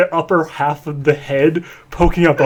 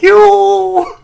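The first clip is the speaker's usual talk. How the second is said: much higher, loud shout; shocked shout; 8 dB louder than usual. Acted. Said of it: "Big Mac is just like".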